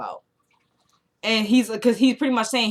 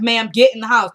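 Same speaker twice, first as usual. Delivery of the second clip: lightly acted officer's command, louder; mock-urgent command, raised volume; imitated firm order; 7 dB louder than usual. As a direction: retell an officer ordering someone indoors, with added volume. Acted officer ordering woman indoors.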